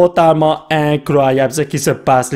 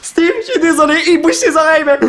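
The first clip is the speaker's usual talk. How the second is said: "il bouge ses oreilles" yelled much higher and crying out; excited shout; 9 semitones higher than usual. Real, not acted. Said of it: "Je vais pas crier". (crier « il bouge ses oreilles » tout excité, beaucoup plus aigu)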